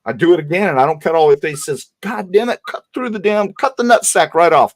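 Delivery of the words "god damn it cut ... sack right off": retold scream. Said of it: "he's screaming at me".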